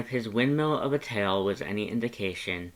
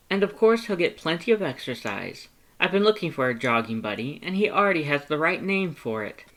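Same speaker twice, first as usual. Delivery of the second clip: high, loud, eager skeleton; Papyrus voice; 6 semitones higher, 4 dB louder than usual. A narrator's reading. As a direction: talk up your past like an earnest, excitable skeleton. Papyrus planning jogs.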